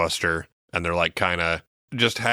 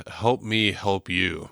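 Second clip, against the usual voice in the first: slow mock plea; much slower than usual. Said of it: "And she says".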